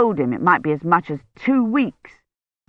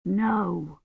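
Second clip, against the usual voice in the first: weak feverish murmur; 8 dB quieter than usual. Acted. Feverish patient answering weakly.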